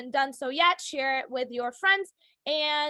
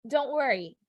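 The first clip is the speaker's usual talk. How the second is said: reassuring. Shown as a demonstration. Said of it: "your intonation is the way".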